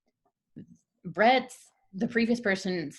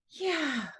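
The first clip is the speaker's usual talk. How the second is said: high, drawn-out starstruck squeak; imitated tearful fan's yes; retold hysterical reply; 9 semitones higher than usual. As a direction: squeak it out as an overwhelmed fan. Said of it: "I'm still hysterical".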